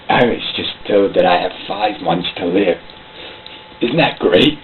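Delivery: cheerful, bright delivery of sad news; chirpy tone for tragic words; sad news in a happy voice. Shown as a demonstration. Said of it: "say something sad with a happy voice".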